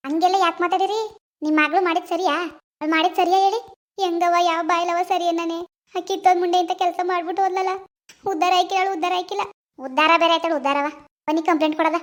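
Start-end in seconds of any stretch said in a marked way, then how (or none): 4.0-10.9 a touch of tearful cursing; grieving and bitter, half sobbing; crying mother. Acted. Mother cursing her runaway daughter through tears. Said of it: "ನೀವ್ ಹಿಂಗ್ ಅಳ್ತಿದ್ರೆ".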